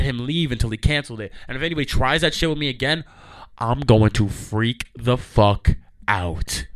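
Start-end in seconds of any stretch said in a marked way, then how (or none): 3.6-6.7 slow menace. Real, not acted. Threatening future rude drivers.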